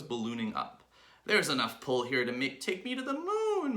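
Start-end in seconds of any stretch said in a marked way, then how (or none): 1.3-3.8 high, loud squeal climbing higher; Mrs. Twit crying out. A narrator's reading. Wife pulled up by balloons, high cry. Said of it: "Missus Twit cried out".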